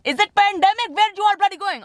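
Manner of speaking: high-pitched mock-indignant rant; mock outrage. Shopper ranting at the crowds everywhere, high mock outrage. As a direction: pitch it up in theatrical exasperation.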